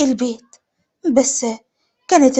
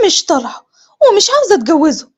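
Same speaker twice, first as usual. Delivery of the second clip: higher-pitched stubborn daughter; defiant refusal; 4 semitones higher, 4 dB louder than usual. Acted. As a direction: refuse your mother firmly. ابنة ترفض العريس أمام أمها. (رفض بعناد)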